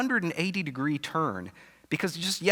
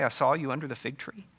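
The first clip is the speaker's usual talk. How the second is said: rising, incredulous "I saw you under the fig tree"; mildly scoffing question rise on "saw"; mocking quote. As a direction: repeat it as if it's a cheap trick. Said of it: "a little parlor trick".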